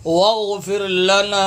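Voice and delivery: slow, drawn-out recitation; Quran recitation. Shown as a demonstration. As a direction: recite with a long final vowel. Teacher recites verse slowly. (ٹھہر کر تلاوت)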